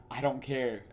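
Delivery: imitating Black Panther waving Hawkeye off; dismissive quote. Black Panther brushing off Hawkeye, mock dismissive. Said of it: "such a dismissive".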